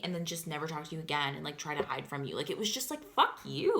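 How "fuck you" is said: mock yell. Voicing roommate's attitude, retold.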